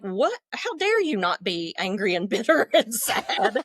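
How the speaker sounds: lightly outraged, with a laugh breaking in; hammed-up envy of happier colleagues; mock indignation. Speaker retells resenting others who enjoy work, mock indignation. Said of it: "I'd almost be angry at them".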